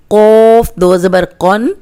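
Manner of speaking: thick qaf demo; heavy qaf. Shown as a demonstration. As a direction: give قن its heavy, thick sound. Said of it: "یہ موٹا کاف ہے".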